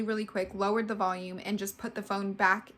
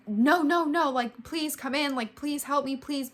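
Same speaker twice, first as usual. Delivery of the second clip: higher, louder desperate plea; retold begging; 5 semitones higher, 4 dB louder than usual. Woman begs the police at the door, higher and louder. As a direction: beg the cops to come in.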